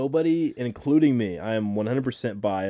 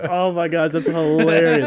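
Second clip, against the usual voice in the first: high and loud, delighted; excited laughing reaction; 7 semitones higher, 10 dB louder, slower than usual. Retold or imitated. Telling friends his own reaction at the movie, loud delight. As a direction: gush over how funny it is. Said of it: "I was like".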